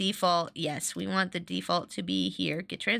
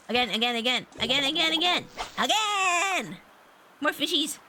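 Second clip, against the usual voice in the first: more insistent with each word; building eagerness; 7 semitones higher than usual. Real, not acted. Player begging the game for another fish, eager.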